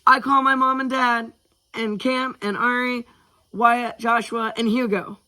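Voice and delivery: put-on high-pitched kid calling dibs; high, eager roll call of names; excited child. A narrator's reading. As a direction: claim your team in a high eager voice. Excited child claims teammates.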